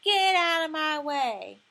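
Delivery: high, loud, slow squeaky shout; a little boy squeaking out a brave command; squeaky yell. Acted. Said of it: "and said squeakily".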